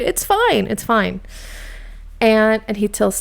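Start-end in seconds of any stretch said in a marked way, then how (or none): 0.0-1.2 mock cheery denial. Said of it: "being totally positive about it".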